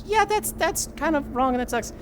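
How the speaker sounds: a hint of a disappointed viewer; mock disapproving. Voicing viewers' judgement.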